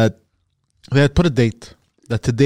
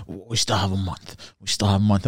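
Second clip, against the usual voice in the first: retold calm reassurance; 4 semitones lower, 6 dB quieter than usual. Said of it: "And he's like".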